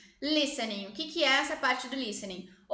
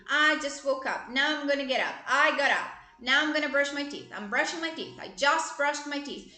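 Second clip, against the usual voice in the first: slow self-narration demo; 3 dB louder than usual. Shown as a demonstration. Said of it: "narra o seu dia".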